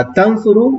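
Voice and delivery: تنصرو said very slowly, syllable by syllable; careful pronunciation. Shown as a demonstration. Teacher slowly models تنصرو for students. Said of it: "اس کی تلفظ پر غور کیجئے".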